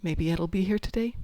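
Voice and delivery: mild hopeful wondering, rising at the end; hopeful musing. Acted. Player waking up each day, mildly hopeful. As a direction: wonder it lightly to yourself. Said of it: "Every day I get up and it's like".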